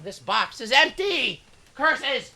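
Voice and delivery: high, loud mock dismay; dramatic exclamation. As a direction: shout it like a thwarted villain. Character exclaims in game.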